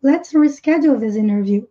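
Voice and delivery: "this" with tongue tip between the teeth; careful th in this. Shown as a demonstration. Teacher models "this" with tongue between teeth. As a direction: bite the tongue lightly on "this". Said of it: "com a pontinha da língua presa entre os dentes".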